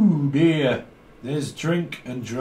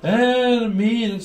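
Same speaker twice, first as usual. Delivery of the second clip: put-on slow drunk declaration; 5 semitones higher, 3 dB louder, slower than usual. Drunk caller slurring a love line.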